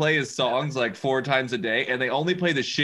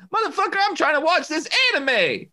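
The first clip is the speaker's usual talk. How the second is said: high, louder mock-annoyed retort; 4 dB louder than usual. Answering his wife while watching anime, mock annoyed. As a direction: whine it like you're interrupted mid-show. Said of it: "I'm like".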